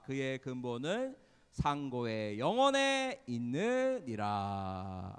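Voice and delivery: loud, slow, measured Bible reading; scripture recitation. Real, not acted. Leading the class through Micah, loud scripture recitation. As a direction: read it out strongly, drawing out the endings. Leads scripture read aloud together.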